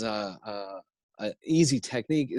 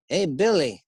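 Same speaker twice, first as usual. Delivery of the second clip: prairie Pa. Shown as a demonstration. Pa asking Billy's help with wagon, slow prairie voice. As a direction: call to the boy, then drawl it slowly. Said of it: "Little House on the Prairie type of scene".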